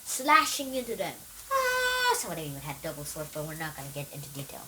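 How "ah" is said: high, soft drawn-out "ah"; small high-pitched cry of someone cut down; mock battle cry.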